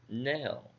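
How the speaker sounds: nal said alone as the stressed syllable. Shown as a demonstration. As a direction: give nal on its own. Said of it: "The stress goes on the second syllable".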